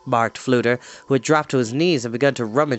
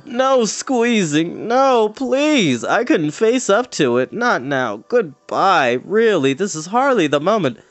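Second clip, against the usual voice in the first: higher, pleading in a frightened rush; panicky pleading; 6 semitones higher, 3 dB louder, slower than usual. Acted. Creature dodging the girl's grip, frightened pleading. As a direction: beg off like a terrified little creature. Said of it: "gave a heart-ending sob".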